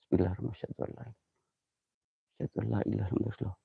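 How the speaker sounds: barely voiced, drawn-out bismillah; slow, hushed bismillah before facing the ghosts; slow whispered prayer. Real, not acted. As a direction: breathe the prayer slowly. Praying before calling spirits.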